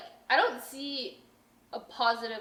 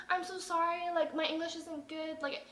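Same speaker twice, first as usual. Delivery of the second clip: higher, softer apologetic voice; retold meek apology; 4 semitones higher, 3 dB quieter than usual. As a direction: imitate a kindly, apologetic lady. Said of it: "this lady was the kindest soul".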